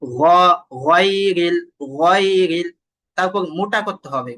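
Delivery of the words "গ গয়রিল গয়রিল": "গয়রিল" louder, with firm heavy throat gh; hard ghain. Shown as a demonstration. Teacher shows ghain must be firm, loud articulated demo. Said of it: "গইন উচ্চারণ করার সময় শক্ত হবে".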